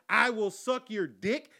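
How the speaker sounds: slow, drawn-out seductive quote; quoting her offer. Retold or imitated. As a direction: savour each word. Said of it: "You throw in the words".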